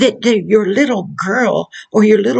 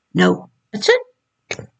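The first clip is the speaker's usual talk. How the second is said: firm no; much slower than usual. Retold or imitated. Parent firmly stopping a toddler.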